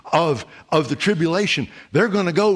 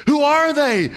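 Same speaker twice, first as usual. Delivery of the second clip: angel asking; 11 semitones higher, 4 dB louder than usual. Acted. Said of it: "An angel asked him the question".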